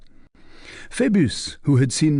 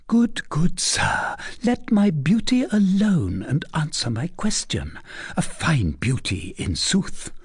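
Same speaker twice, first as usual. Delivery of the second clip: put-on a higher, teasing young lady's voice; coy young lady; 7 semitones higher than usual. A narrator's reading. Young lady teasing the captain, coy and higher. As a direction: play the coy cousin pressing her question. Fleur de Lis voiced high.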